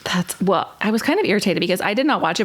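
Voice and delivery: ordinary delivery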